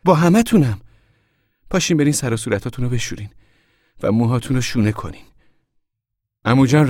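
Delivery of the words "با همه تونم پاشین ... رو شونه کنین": high, loud, urgent orders; shouting. A narrator's reading. Mother rouses the whole sleepy family, shouting. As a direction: holler at the sleepers to get moving. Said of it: "مادر فریاد زد".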